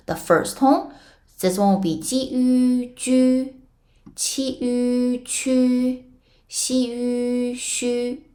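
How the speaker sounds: high, level, drawn-out syllables; held high and even, no rise or fall; flat first tone. Shown as a demonstration. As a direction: chant each sound on one high flat note. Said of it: "in the flat tones".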